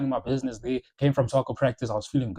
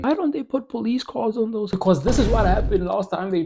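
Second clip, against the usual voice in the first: higher, a second go at a white South African accent; white South African accent, retried; 7 semitones higher than usual. Shown as a demonstration. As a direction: redo the line in a white South African accent, stress on dont. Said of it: "It sounded colored more than anything".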